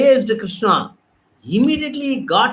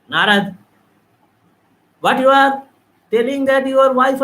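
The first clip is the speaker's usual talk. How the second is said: higher, chiding voice of Krishna; mildly raised, stern Krishna; Krishna scolding; 3 semitones higher than usual. Acted. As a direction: scold Narad as the god. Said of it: "Krishna alerted him".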